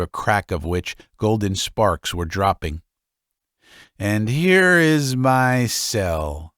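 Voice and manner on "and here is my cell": slow, proud little announcement; old man showing his son his cell, slow and lightly voiced; old father, slow. Old man shows his room.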